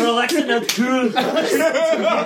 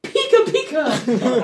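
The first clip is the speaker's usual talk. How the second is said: Pikachu voice; 5 semitones higher, much slower than usual. Acted. Imitating Pikachu's cry.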